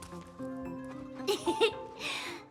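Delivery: quiet amused chuckle; soft laugh. Acted. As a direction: chuckle softly to yourself. Amused by the playing children.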